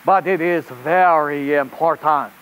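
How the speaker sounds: put-on rabbit reporter in a hammy French accent; host a children's show in bad French-accented English; really bad French accent. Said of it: "with a really bad French".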